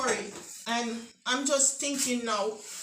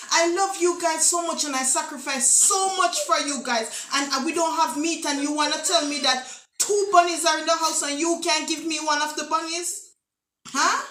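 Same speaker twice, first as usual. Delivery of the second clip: mock guilt-trip; 3 semitones higher, 4 dB louder than usual. Mother demanding bunny, guilt-tripping.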